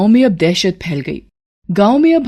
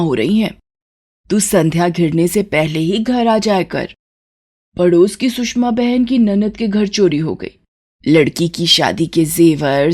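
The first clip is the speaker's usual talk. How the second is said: worried mother; 2 semitones lower than usual. Acted. Mother warns son about thefts, lightly voiced worry.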